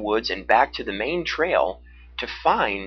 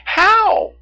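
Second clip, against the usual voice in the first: put-on high girl's question; 10 dB louder than usual. A narrator's reading. Girl asks, very high.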